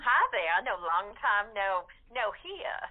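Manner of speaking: put-on light Southern accent as Margaret May. The speaker greets the host as Margaret May, light Southern accent. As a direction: greet her in a mild Southern belle accent. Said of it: "we're going Southern".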